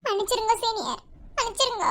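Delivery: soft, tearful apology. Acted. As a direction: apologise quietly through tears. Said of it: "எதுக்கு அழுதுட்டு இருக்க".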